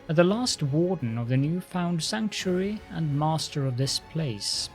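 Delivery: lordly lich voice. Acted. Undead lich speaks to crusader.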